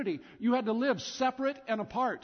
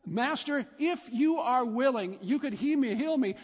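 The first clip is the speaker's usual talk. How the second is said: pleading leper; 2 semitones higher than usual. Acted. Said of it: "But what if it went like this?".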